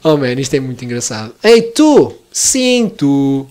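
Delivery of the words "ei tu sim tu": high, loud mock challenge; calling out. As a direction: hail someone in a raised, higher voice. Calling out to a game creature. (chamar alguém em voz alta e aguda)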